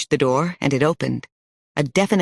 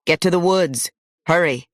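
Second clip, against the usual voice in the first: calling out; 2 semitones higher than usual. Acted. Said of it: "calling to the kids too".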